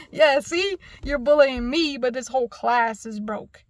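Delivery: loud, emphatic comeback; retold triumphant call-out of a bully; vindicated retort. Retold vindicated reply to class.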